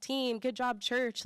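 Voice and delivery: slow cheering like a proud mom. Pretend. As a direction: praise them like a proud mother, drawn out. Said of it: "it makes me feel like a proud mom".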